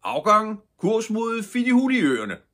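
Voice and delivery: high, loud ship's command; captain's shout. A narrator's reading. Ship's captain shouting the order to depart. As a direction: bellow the order to sail. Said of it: "råbte skibets kaptajn".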